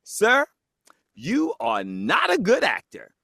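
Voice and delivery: high, slow pronouncement, mock calling out; imitating a customer who calls out; not quiet. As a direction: deliver a drawn-out public verdict. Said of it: "she was not quiet".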